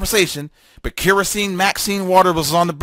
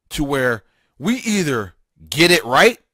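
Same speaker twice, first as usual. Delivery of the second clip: RIGHT set apart and lifted at the end; emphasis on RIGHT; 3 semitones lower than usual. Real, not acted. Host tells listeners we're at a juncture, stressing "right". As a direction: lean pointedly on the word "right". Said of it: "putting emphasis on the word right".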